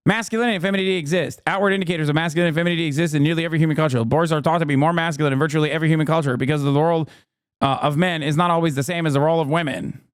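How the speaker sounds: extremely fast, rattled-off reading; speed-reading aloud. Real, not acted. Streamer reading out a post on gender, racing through. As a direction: race through the text in one run.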